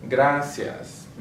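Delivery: gracias stressed on GRA; GRA-cias, lean on the first syllable; penultimate stress. Shown as a demonstration. Teacher giving examples of palabras llanas, penultimate stress. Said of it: "the second to last syllable".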